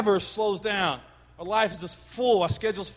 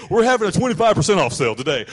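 sale text; 8 dB louder, faster than usual. Retold or imitated. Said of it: "Get that text in".

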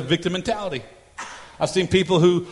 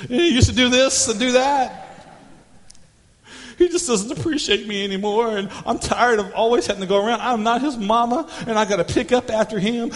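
lightly voiced whiny wife, building; hammed-up wife griping about chores; mock weary wife; wife complaining. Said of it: "she is like".

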